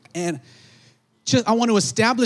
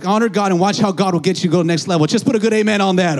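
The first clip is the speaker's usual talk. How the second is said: loud, raised call for amen; preaching call; 3 semitones higher, 5 dB louder than usual. Real, not acted. Preacher rallying the congregation, loud. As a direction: push the crowd to say amen.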